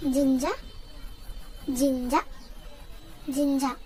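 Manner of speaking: "Jinja" repeated clearly as JIN-ja; pronunciation demo. Shown as a demonstration. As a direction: model "Jinja" with pauses between repeats. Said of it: "teach you how to pronounce it".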